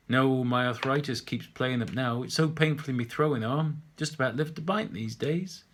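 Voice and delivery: a lightly voiced old chap grumbling. Old man telling the painter his aches, mildly grumbling. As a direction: complain about the arthritis like an old regular.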